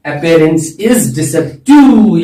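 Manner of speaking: Appearance is deceptive said very slowly, each word spaced; stretched teacher emphasis on Appearance is deceptive; slow, deliberate repeat. Shown as a demonstration. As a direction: spell the phrase out slowly for the class to repeat. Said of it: "क्या बोलते हैं?".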